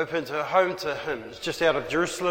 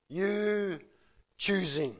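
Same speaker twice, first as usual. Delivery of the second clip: hushed emphasis; 7 dB quieter, slower than usual. Real, not acted. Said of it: "repeated stressed phrase".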